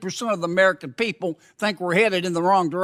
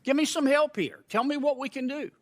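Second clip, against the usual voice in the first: exasperated plea; 7 semitones higher, 5 dB quieter than usual. Real, not acted. Pleading with the chairman.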